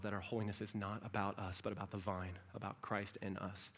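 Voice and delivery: quiet reassurance. Acted. Soft reassuring close.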